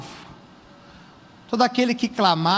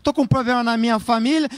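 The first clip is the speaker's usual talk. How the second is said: complaining; faster than usual. Shown as a demonstration. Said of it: "você começa a reclamar".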